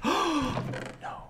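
high, dismayed "no"; a squeaky cry of disbelief; mock horrified no. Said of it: "I was like".

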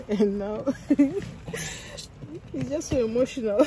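slow, laughing through emotional words; nervous laughter through feelings; laughing emotionally. Real, not acted. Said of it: "I don't even know why I'm laughing".

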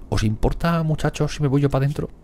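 high, put-on meek voice; squeaky timid settler asking to go inside; timid colonist voice. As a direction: ask permission like a shy settler.

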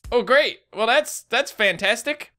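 slow sarcastic fantastic; sarcastic drawl. Real, not acted. After dying.

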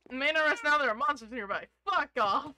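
loud outburst. Real, not acted. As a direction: blurt it out loud. Reads game warning, loud.

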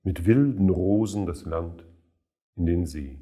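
measured poetry reading with pauses between phrases; solemn recital, line endings falling away; poem recitation. Acted. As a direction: recite the verse deliberately, letting each image stand.

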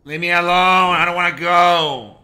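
loud whiny plea; scared pleading. Real, not acted. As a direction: beg not to go.

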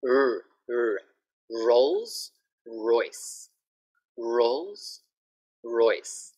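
"Rolls Royce" with a strong curled R; R drill. Shown as a demonstration. Teacher drilling R for Thai learners. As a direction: drill the R carefully. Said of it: "so the sound".

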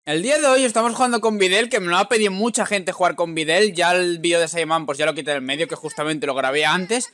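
pumped-up presenter hyping the pick; excited intro. Real, not acted. Gamer hyping his viewers up on the new character, excited.

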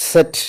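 "സെറ്റ്" starting with a ts sound; German letter name. Shown as a demonstration. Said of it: "എന്നാണ് പറയുന്നത്". ("സെറ്റ്" German ഉച്ചാരണത്തിൽ)

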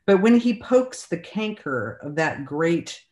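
measured poetry recital, pausing between phrases; poem reading. Acted. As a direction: read the poem line by line with deliberate pauses. Reads second poem aloud.

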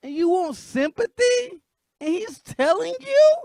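loud, high, incredulous yelling; outraged shouting. Real, not acted. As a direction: yell at her in disbelief. Reactor yells at woman in clip.

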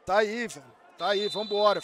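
normal talking voice

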